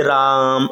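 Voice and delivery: राम with the आ held extra long; drawn out vowel. Shown as a demonstration. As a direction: hold the vowel in राम, pluta style. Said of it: "अ के pronunciation को ... ज़्यादा देर तक बढ़ाएगी". (राम के आ को देर तक खींचें)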